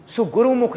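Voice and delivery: ਸੁ said with short u, not o. Shown as a demonstration. Preacher explaining the spelling, ਸੁ with short u. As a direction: open the phrase on a short-u ਸੁ. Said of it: "ਸੱਸੇ ਨੂੰ ਔਂਕੜ".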